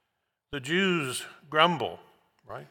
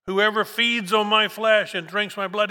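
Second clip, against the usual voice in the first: higher and louder, each word driven home; emphatic proclamation; 8 semitones higher, 7 dB louder than usual. Shown as a demonstration. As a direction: proclaim it like a preacher at full force. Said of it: "he says it again".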